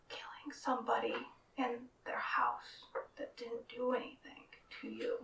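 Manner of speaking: whisper yelling. Acted. Whisper yells.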